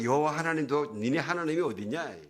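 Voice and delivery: mocking taunt; Goliath. Goliath asks Israel where their God is, mock taunting. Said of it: "온갖 조롱하고 모욕하는데".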